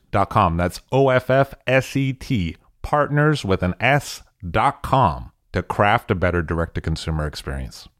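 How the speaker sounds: polished, measured podcast ad delivery; scripted host-read promo; sponsor ad read. Acted. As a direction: sell the sponsor with crisp, deliberate emphasis.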